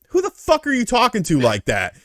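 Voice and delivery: high-pitched indignant comeback; indignant retort. Retold or imitated. Worker answering the pharmacist who screamed at him, high indignant retort. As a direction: throw it back, pitched well up. Retold workplace argument.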